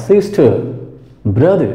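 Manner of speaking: SISTER and BROTHER with the final R dropped; SISTER, BROTHER ending in a plain vowel, no R; silent final R. Shown as a demonstration. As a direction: leave the R at the end of SISTER and BROTHER unpronounced. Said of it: "বাকি আর এর উচ্চারণ কিন্তু হয় না".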